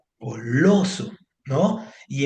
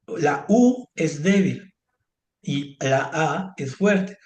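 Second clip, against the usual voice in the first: slow teaching emphasis; slower than usual. Shown as a demonstration. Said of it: "te acuerdas lo que decíamos de las débiles y fuertes".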